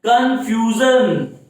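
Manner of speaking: "confusion" slow and strongly stressed; "confusion" drawn out, slow and emphatic; greater emphasis. Shown as a demonstration. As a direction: stretch "confusion" out with heavy emphasis. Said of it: "So greater emphasis, look at here".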